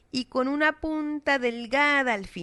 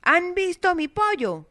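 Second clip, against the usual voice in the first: put-on old woman; 8 semitones higher, 3 dB louder than usual. Old woman repeats her question.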